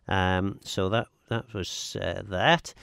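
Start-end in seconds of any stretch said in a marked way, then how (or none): none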